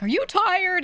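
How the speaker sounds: very high, loud prying question; mock concern. People seeing someone without makeup, exaggerated concern. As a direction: imitate a concerned onlooker, pitch shooting up.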